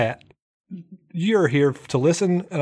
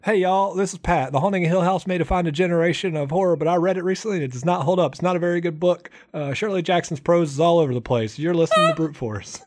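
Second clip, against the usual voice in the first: normal one; 4 semitones higher, faster than usual. Shown as a demonstration. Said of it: "I'll just do one normal one".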